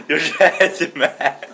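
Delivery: laughing. Real, not acted. Laughing about angry dad.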